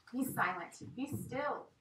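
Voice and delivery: rising, pressed command; a touch of frantic shrieking; mild shriek. Acted. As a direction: shriek at the pot. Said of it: "shrieked the wizard".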